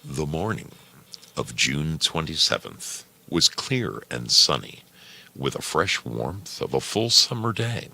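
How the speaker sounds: calm storybook reading; story narration. Acted. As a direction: read it like a bedtime tale. Reads story aloud.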